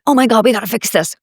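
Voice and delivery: imitating a panicked coworker; mock panicked rush. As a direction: act out a frantic fix-it rush. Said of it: "You weren't like".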